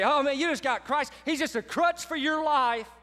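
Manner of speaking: belittling taunt, lightly hammed up; sarcastic mocking. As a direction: act out a mean relative's jeer. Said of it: "those who are sarcastic and mean toward us".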